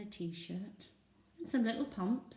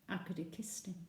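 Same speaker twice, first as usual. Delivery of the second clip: whispered; 6 dB quieter than usual. Real, not acted.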